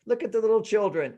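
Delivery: high, delighted pointing out flowers; lightly voiced delighted wife. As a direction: wonder at little things on a walk.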